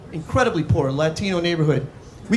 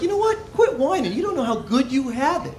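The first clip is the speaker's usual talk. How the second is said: mock scolding; 5 semitones higher than usual. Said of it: "I was like".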